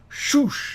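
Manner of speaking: high swooshing noise; quick high-pitched swoop sound; imitated whoosh. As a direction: make the whoosh of something swooping past. Imitates the dragon swooping past.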